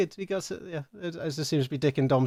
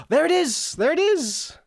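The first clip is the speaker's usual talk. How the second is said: excited. Real, not acted. Alert finally appears, gasps.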